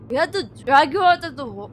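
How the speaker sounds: quick Indian accent attempt that breaks off. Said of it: "that's an Indian accent".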